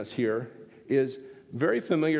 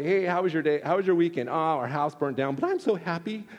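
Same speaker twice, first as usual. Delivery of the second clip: fake cheer; 3 semitones higher than usual. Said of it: "this isn't the joy".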